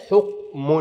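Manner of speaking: حكم broken up, final "-un" nun drawn out; حكم said as "hukm-unnn"; pronounced tanween. Shown as a demonstration. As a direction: sound out the hidden nun ending حكم. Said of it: "أنطق نون".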